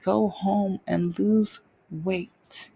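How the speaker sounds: slow, dismissive doctor line; smug dismissal. Retold or imitated. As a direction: brush her off, slowly and smugly. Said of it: "smug smirk".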